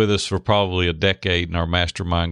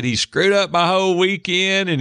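higher, indignant retold rant; mad outburst; 9 semitones higher than usual. Retelling his anger after his friend hung up, a mock furious burst. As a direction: vent it like your weekend was ruined. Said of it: "I was so mad".

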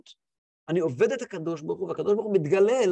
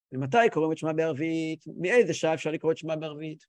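lower, level study reading; reading and translating; 4 semitones lower than usual. Acted. Reb Shmelke translates the Mishnah for his pupil, even reading. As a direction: translate evenly, line by line. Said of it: "תרגם ליידיש".

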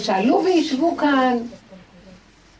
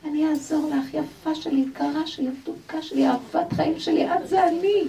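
soft, tender voice of comfort; a hushed, loving promise to help; gentle; 3 semitones higher, 4 dB quieter than usual. Retold or imitated. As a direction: coo it gently, like soothing a child. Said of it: "היא עדינה".

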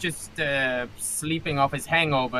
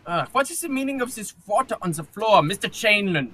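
fast, irritated scolding; scolding captain; 5 semitones higher, 5 dB louder, faster than usual. Acted. Captain scolds the cabin boy over the wet floor, fast and cross. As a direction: tear into the cabin boy quickly.

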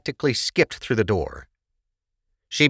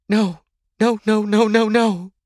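high-pitched, voiced panic rather than a true whisper; panicked whisper; 14 semitones higher, 4 dB louder than usual. A narrator's reading. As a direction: repeat it in rising disbelief. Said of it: "she whispered".

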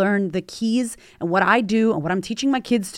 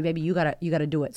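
put-on soft, gentle coaxing to a child; tender encouragement; 4 semitones lower, 5 dB quieter, faster than usual. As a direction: coax your scared little boy. Mother encouraging scared son.

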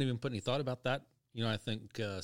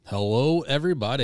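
booming late-night radio voice; sultry narrator; 10 dB louder than usual. Shown as a demonstration. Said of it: "can you hear that sultry voice there".

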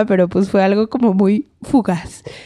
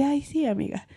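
supportive; 4 semitones higher, 10 dB quieter than usual. Retold or imitated. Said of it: "buen pedo, así".

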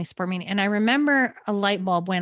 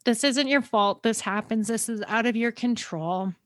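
tearful quote; 2 semitones higher than usual. Retold or imitated. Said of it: "I just remember her saying".

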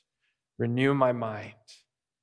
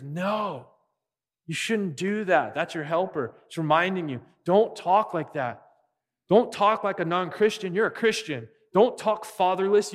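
higher-pitched insistent reminder, as a helper correcting; urgent admonishment; 5 semitones higher, 4 dB louder than usual. Acted. Holy Spirit reminding a Christian not to talk that way, urgent admonishment. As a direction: voice an earnest, raised-pitch rebuke.

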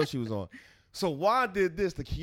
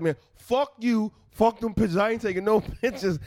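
mock angry outburst; 3 semitones higher, 3 dB louder than usual. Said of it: "I was like".

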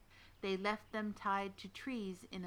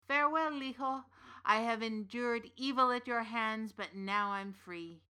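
defiant farewell; 2 semitones higher, 6 dB louder than usual. Acted. Smith defies the witch while escaping.

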